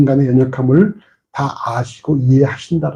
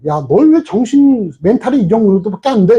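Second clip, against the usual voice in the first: higher, mock scolding rebuke; 5 semitones higher than usual. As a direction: rebuke a sleepy disciple, half-hammed. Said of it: "이렇게 말씀하신 것이 아니라".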